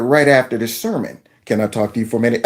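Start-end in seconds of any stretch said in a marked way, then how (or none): 1.5-2.4 deep, soft voice of Jesus; low and gentle, tapping a shoulder; a low, hushed Jesus calling you aside. Pretend. Jesus voiced in a hypothetical scene.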